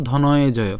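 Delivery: "ধনয়ে জয়" with a y glide before the j; careful pronunciation. Shown as a demonstration. Teacher gives the whole word's sound, careful "ধনয়ে জয়". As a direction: say "ধনয়ে জয়" as dhono-ye-joyo. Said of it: "তাহলে পুরার উচ্চারণ হচ্ছে কেমন?".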